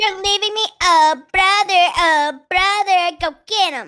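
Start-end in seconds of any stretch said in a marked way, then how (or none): 0.8-1.8 louder dramatic call of "Oh, brother.". Acted. Sister calls brother for help. 2.0-3.2 slow, stretched "Oh, brother."; slow drawn call. Acted. Sister calls brother again, drawn.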